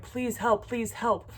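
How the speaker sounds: mild imitation of a tearful plea; near-tears plea. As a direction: plead as if about to cry. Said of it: "I'm, like, starting to cry".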